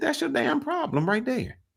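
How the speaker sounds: very high scolding voice. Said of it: "He said".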